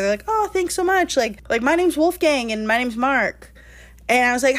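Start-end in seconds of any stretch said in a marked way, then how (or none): 0.3-3.5 higher, eager introduction; imitating the dudes. Dudes thank her for the seats, lightly voiced eager guys. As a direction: lightly play two polite guys.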